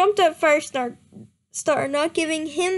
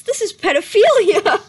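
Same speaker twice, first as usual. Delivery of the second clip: disgusted; 4 semitones higher, 8 dB louder than usual. Real, not acted. Reacting to the fanfic in disgust.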